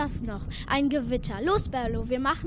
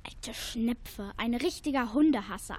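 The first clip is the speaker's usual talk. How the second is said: muttered insult; 3 semitones lower, 5 dB quieter than usual. Acted. Grumbles after neighbour leaves.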